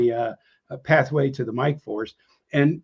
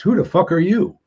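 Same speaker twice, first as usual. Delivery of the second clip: gruff challenge; 6 semitones higher, 5 dB louder than usual. Retold or imitated. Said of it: "squinted his eye and asked".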